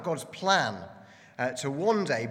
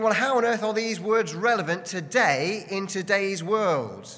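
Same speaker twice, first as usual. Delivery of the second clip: acted disbelief, pitched higher; raised, emphatic mock disbelief; incredulous objection; 5 semitones higher, 3 dB louder than usual. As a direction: voice a mildly incredulous listener. Voices a baffled listener's objection.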